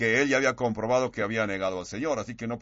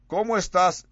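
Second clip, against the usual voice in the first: higher and louder, a bright sing-song hello; cheery church greeting; 7 semitones higher, 5 dB louder than usual. Retold or imitated. Churchgoer greeting someone after the service, chirpy and loud.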